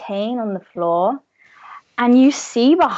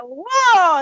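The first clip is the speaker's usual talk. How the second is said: higher, drawn-out whoa; a touch louder, high crowd gasp; awed cheer; 8 semitones higher, 4 dB louder than usual. Acted. One of the elves in the cheering crowd, high awed whoa. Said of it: "some of them are being like".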